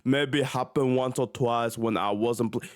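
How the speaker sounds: lightly voiced mocking impression; a hint of a mock tough guy; mocking fake Kobe. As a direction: read the quote like a wannabe star. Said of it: "fake Kobe".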